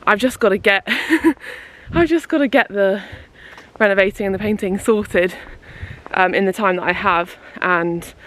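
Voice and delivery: puffing while walking uphill; breathless, walking up a hill; out of breath. Real, not acted. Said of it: "Sorry, I'm a bit out of breath".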